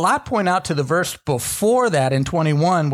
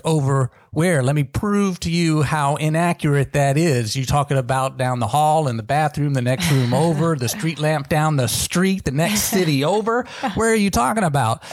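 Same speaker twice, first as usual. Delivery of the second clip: retold exasperation. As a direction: build up an irritated list, rising as it goes. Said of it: "And it's like".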